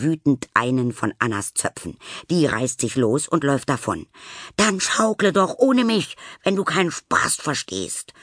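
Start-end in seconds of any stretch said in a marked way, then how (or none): 4.6-8.1 high call over the shoulder; calling back. Acted. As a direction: call it out while running off. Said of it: "ruft sie noch über die Schulter".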